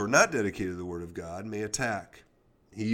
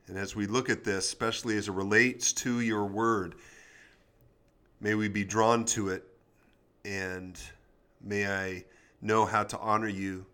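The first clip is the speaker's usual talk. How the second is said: prayer. Acted. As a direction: pray it gently to God. Opening prayer before reading.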